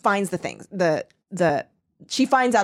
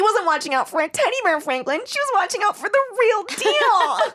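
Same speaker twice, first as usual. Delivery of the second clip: mock ominous; 11 semitones higher than usual. A narrator's reading. Reading Becky's inner thought as an overblown twist. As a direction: lift it up like a twist. Ominous line read dramatically.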